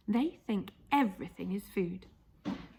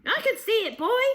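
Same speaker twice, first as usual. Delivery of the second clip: higher, loud cackling grandma; gleeful old woman calling down; Grandma shouting; 12 semitones higher, 5 dB louder than usual. Acted. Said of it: "the old girl shouted back".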